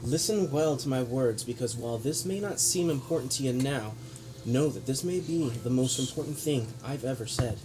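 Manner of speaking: grave lecturing noble speech; villain monologue. Acted. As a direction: preach down at them with scorn. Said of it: "Villain monologue".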